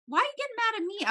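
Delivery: high-pitched, incredulous imitation of arguing; retold protest. Friend objecting to being snapped at, high incredulous protest. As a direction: squeal the question in mock indignation.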